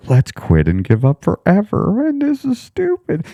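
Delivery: mock the voice telling you to give up; a whiny inner voice demanding to quit; blunt quitting voice. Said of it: "The voice wasn't like".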